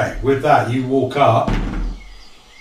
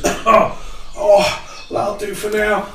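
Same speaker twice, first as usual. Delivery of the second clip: relieved elf; 6 semitones higher, much slower than usual. Acted. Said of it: "And she goes".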